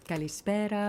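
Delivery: put-on Kalispera in a Greek accent. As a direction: greet the shop in Greek. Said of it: "say it in a good accent".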